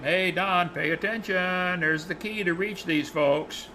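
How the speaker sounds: slow, stretched-out mock holler at no great volume; retold calling out. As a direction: call to him as if from afar. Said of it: "the Lord's yelling at him".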